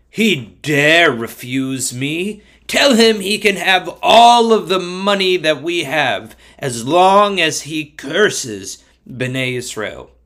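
a touch of royal outrage, slow on key words; lightly hammed-up offended king; indignant king. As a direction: demand it with drawn-out, mildly indignant emphasis. King Balak outraged at refusal.

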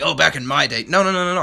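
mock grumpy old man; a hint of a crotchety geezer; old fart voice. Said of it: "one of those old farts that's like".

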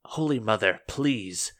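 acted outrage, punching the accusations; angry accuser. Angry churchwoman pleading to Holy Mother against the Slay Dogs, indignant. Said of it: "cut back to the angrier voice".

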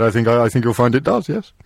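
lightly pompous, self-important tone; a touch of mock pomposity; slightly pompous. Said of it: "I was putting on a slightly pompous voice".

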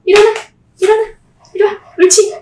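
loud, high commands to a dog; talking to a dog. Real, not acted. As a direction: call the dog up, sharp and loud. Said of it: "목소리 한번 들려줄까요?". (개에게 크게 외치는 명령)

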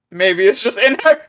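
commercial tagline. Retold or imitated. Co-host twisting an old makeup slogan, mock commercial voice. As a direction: lift the end like an advert tagline. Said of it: "I miss those old Maybelline commercials".

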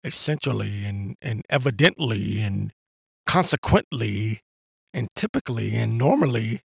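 a hint of a pompous speaker; mock proper tone. Shown as a demonstration. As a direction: parody someone sounding educated. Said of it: "if you talk like this".

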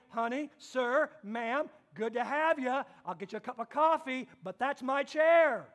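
sweet hostess then a firm last line; gracious mother who claims her chair; Mama's polite welcome, firm on the chair; mom voiced. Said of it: "she's gonna say".

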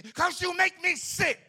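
loud, slow, pitched high, fed up; mock angry snap. Husband finally snapping at his wife, loud and exasperated. Acted marital quarrel, husband snaps.

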